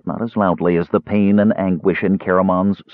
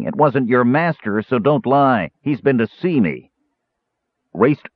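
higher dwarf voice, cunning and gloating; shrewd dwarf; 4 semitones higher than usual. Acted. Dwarf reveals the deadly final fight, higher gloating voice. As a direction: savour the threat as the dwarf.

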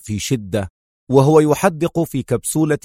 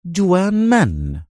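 calmly; 6 semitones higher, slower than usual. A narrator's reading. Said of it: "قاطعه روجر في هدوء".

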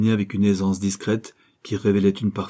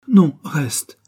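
pleading gently; 7 semitones higher, 7 dB louder than usual. Acted. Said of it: "suppliait gentiment Gisèle".

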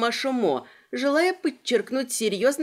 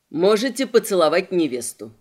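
hoarse voice; 4 semitones lower, 4 dB louder than usual. Acted. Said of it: "вдруг осипшим голосом".

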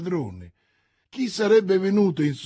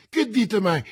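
acuto e più forte, incredulo; 6 semitones higher, 5 dB louder than usual. A narrator's reading. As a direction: chiedi sconvolto. D'Artagnan sconvolto. (D'Artagnan non crede ad Athos, incredulo)

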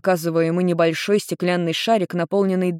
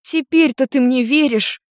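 higher, slow hopeful question; 8 semitones higher, 4 dB louder than usual. Acted. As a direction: ask with hope. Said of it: "с надеждой спросила девушка".

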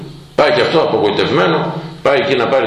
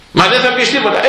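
put-on high, pleading young voice; pleading youth; 12 semitones higher than usual. Young visitors plead with the elder for a word, high and pleading.

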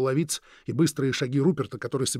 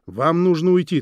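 firmly; 4 semitones higher, 8 dB louder than usual. Acted. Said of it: "твёрдо сказал Руперт".

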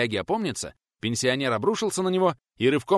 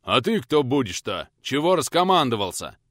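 snarling; 3 semitones higher, 5 dB louder than usual. Acted. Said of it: "Оскалился в ответ".

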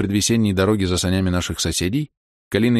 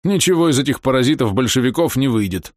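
dry; 5 semitones higher than usual. Acted. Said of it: "сказал он сухо".

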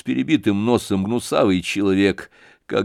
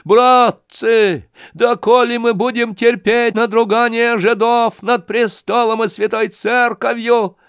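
trembling, tearful rant; 13 semitones higher, 5 dB louder than usual. Acted. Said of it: "дрожащим, плачущим голосом".

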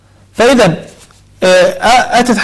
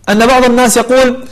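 ordinary talk, nothing marked

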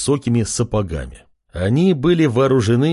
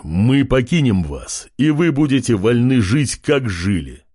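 loud king's command; 2 semitones lower than usual. Acted. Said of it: "громко произнес король".

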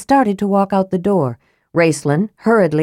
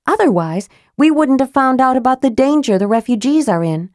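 a hint of a defiant young woman, higher; lightly voiced Tika; 5 semitones higher than usual. Tika defying Raistlin, higher and a bit defiant. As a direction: say it with a touch of defiance.

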